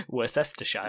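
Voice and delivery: Worcestershire as "wor-SESS-ter-shyer"; mock mispronunciation. Shown as a demonstration. Co-host teasing about visiting players, mispronouncing Worcestershire as spelt. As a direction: sound out Worcestershire as spelt, ending in "shire" like "shy". Joking mispronunciation of place name.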